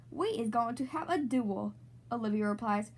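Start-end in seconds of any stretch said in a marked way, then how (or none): 0.1-1.7 cowboy drawl. Pretend. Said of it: "in the Wild West".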